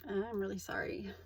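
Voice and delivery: whispered awkward apology. Retold or imitated. Replying awkwardly to his advances, whispered apology. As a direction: murmur the apology, wanting out.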